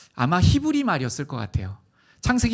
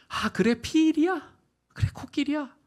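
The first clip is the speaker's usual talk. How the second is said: delighted God; 11 semitones higher than usual. Acted.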